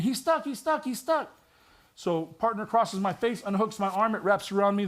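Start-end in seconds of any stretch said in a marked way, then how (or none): 0.0-1.3 retold scream. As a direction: imitate a panicked partner screaming. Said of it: "one of my partners screaming".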